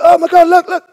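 high, loud sudden excitement; two friends spotting a barn owl, thrilled shout; excited gasp. Retold or imitated. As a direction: point it out like you just spotted the owl. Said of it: "both of us like".

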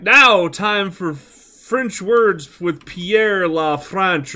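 slow mock show intro; imitated TV announcer. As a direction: announce it like a TV segment. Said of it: "come up to him and be like".

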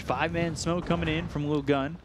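fast excited caster call; live play-by-play. Acted. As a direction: ride the fight as it unfolds. Live team-fight call.

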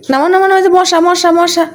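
loud, quick calls to get down and chase the mosquitoes off; shooing shout. Real, not acted. Mother shooing mosquitoes away from her son, calling out loudly.

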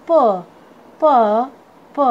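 प as a lone "puh", spaced out; phonic letter sound. Shown as a demonstration. Teacher showing students the sound of P, phonic letter sound. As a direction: sound out प as P starts "parrot". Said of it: "पी का sound होता है".

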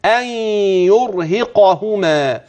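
يرهقهما very slow and deliberate; careful slow يرهقهما; slowly. Shown as a demonstration. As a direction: take يرهقهما gently, syllable by syllable. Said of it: "وانت بتقرأها بالراحة".

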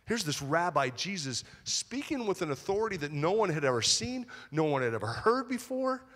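preacher swelling with wonder; excited. Acted. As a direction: build like a kid full of hope.

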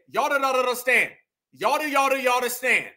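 "Y'all don't understand" with the middle slurred and stuttered; mock fumbled words. Commentator showing what she said, "y'all understand" mockingly garbled. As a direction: trip over "Y'all do, y'all do" in mocking imitation. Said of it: "She said".

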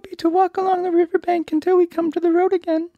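high, loud put-on lion voice; storybook lion. A narrator's reading. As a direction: voice the lion as a big silly creature. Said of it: "remarked the lion".

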